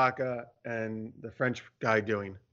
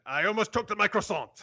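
put-on French accent; 6 semitones higher than usual. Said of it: "I should have done a French accent".

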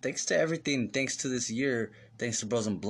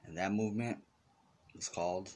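dramatic narrator voice; 5 semitones lower, 7 dB quieter than usual. Acted. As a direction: announce it like a documentary, low and hushed. Mock dramatic announcement.

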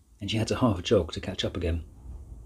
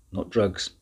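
through gritted teeth; words forced through clenched teeth. Acted. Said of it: "through gritted teeth".

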